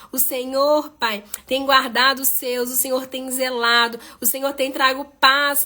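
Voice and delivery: heartfelt spoken prayer with surges on each call of Pai; fervent prayer. Acted. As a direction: pray earnestly for the listeners, rising at each petition. Leads a live prayer.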